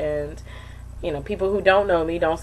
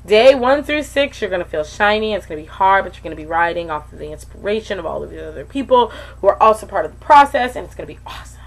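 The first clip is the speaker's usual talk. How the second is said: louder, higher cheery pep talk; peppy coach voice; 4 semitones higher, 7 dB louder, faster than usual. Retold or imitated. Giving future participants an upbeat preview. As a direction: pump up the newbies. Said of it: "a heads up on what to expect".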